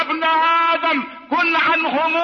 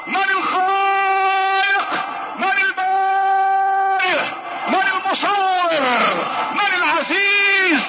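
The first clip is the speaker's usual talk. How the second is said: rising shouted litany of questions; fiery sermon crescendo; preaching at full force; 3 semitones higher than usual. Acted. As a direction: hammer each name out to the congregation. Litany of God's names.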